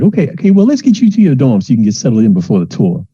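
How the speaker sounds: starts high then settles; upbeat hurry along; brisk TA. Acted. TA hurrying the student toward the dorm. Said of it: "It's like".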